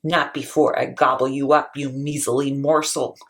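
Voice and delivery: low troll threat; booming troll. Acted. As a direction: rumble it up from below. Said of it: "Troll booms from below".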